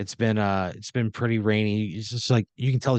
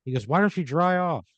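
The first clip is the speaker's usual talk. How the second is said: a slightly raised, easy voice for Michael; lightly voiced Michael; 8 semitones higher than usual. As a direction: nudge her along with a lightly lifted tone.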